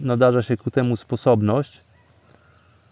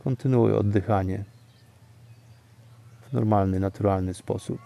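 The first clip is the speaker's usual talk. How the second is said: guided meditation; 4 dB quieter than usual. Acted. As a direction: calmly lead them into stillness. Leads breathing, fading calm.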